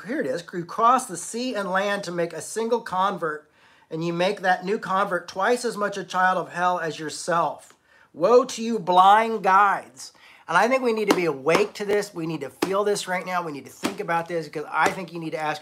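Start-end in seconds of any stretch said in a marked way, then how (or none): 0.5-10.1 building to a loud, forceful woe; scripture preaching. Acted. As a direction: thunder the woe at the blind guides. Reads Jesus' woes from Matthew.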